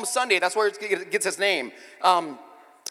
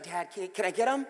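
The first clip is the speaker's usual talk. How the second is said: pleading daughter; 3 semitones higher, 6 dB quieter than usual. Retold or imitated. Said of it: "she's like".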